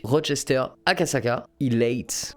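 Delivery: attempted English accent on Elate; French speaker trying an English accent. Real, not acted. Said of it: "super accent anglais".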